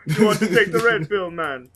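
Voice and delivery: bad Jamaican accent; hammed-up Jamaican accent, laughing. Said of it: "do it in a Jamaican accent".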